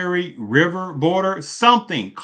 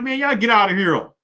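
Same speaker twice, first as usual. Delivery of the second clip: higher-pitched mock rebuff; imagined border resident; 7 semitones higher than usual. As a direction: lightly act out a local sending them away. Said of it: "people across the southern border be like".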